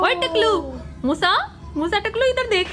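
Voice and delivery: loud, high teasing call. Real, not acted. Calling the child teasingly.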